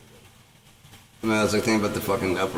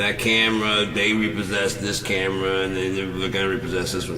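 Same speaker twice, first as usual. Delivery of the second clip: mock lament; 2 semitones higher than usual. Sarcastic rant about repossessions.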